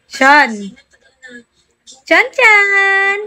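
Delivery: high, drawn-out wake-up call; sing-out call to a sleeper. Real, not acted. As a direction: call the name high, stretching the end.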